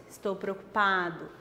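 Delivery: usual speaking voice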